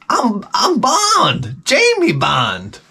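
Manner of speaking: put-on slow, high Black woman accent, dropping at the end. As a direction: announce yourself slowly in a mock Black woman accent. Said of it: "I lost my black woman accent".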